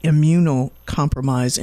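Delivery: word eased out carefully; slow, careful word. Real, not acted. Host handling a hard word on air, slow and careful. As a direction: take the hard word slowly. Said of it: "say it slowly and stretch".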